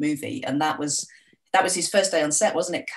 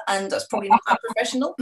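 embarrassed laugh; 7 semitones higher, faster than usual. Real, not acted.

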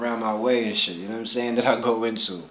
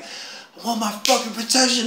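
retold scream at Anubis; 10 semitones higher than usual. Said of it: "I'm screaming at Anubis".

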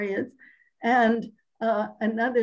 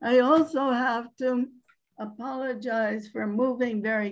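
hoarse voice. Real, not acted. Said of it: "apologies for my hoarse voice".

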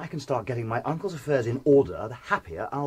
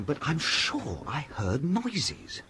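nervous; 4 semitones higher, much slower than usual. Acted. Nervous man reports night noises.

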